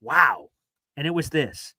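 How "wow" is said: mock being struck by a quote; loud mock-impressed oh wow. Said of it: "I just heard it and went".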